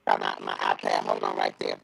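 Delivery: muffled, breaking-up phone line. Real, not acted. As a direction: voice coming through a bad connection. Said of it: "but now it's like it's so muffled".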